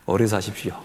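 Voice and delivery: chuckling repeat of the wish; laughing blessing. Real, not acted. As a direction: say it through a light laugh.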